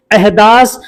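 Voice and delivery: अहदास ending on a plain s; basic s ending. Shown as a demonstration. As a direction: close अहदास on s, no vowel after. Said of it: "इसी दास को बहुत से लोग". (अंत में स पर रुकता अहदास)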